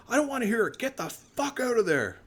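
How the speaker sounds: high, fast mock rant from the phone; imitating furious boss. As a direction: play the enraged landowner, hammed up. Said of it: "he was seeing red".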